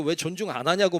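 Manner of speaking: half-hearted huff of an offended elder; demanding elder. Retold or imitated. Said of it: "그리고 ... 말하면". (대접 못 받아 화난 어른 흉내)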